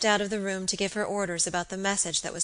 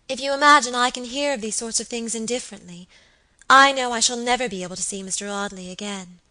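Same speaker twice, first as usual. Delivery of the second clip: mildly wounded, louder and higher at first; injured air; 4 semitones higher, 8 dB louder than usual. A narrator's reading. Wife objecting to her husband's dismissal of her fears, injured. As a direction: protest as if hurt. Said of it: "with rather an injured air".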